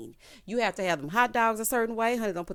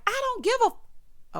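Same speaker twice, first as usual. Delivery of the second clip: very high mock holler; retold slow, high-pitched outburst; 14 semitones higher, 4 dB louder, slower than usual. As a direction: imitate a defiant yell, drawn out. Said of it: "child, she hollering".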